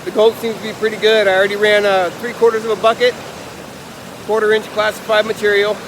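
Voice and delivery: out of breath from digging; winded, short breaths between words; shallow breathing. Real, not acted. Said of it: "Sorry, I'm out of breath".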